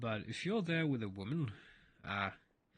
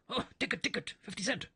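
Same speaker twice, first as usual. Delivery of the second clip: higher and higher, playing dumb; a tourist pretending not to understand, voice climbing; feigned ignorance; 7 semitones higher than usual. German man voiced again.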